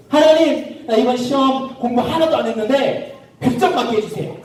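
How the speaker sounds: mock wishful prayer, pitched high; pleading prayer. Unprepared pupil begging God for top marks, mock pleading. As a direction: pray eagerly for an undeserved favour. Child's glib exam prayer acted.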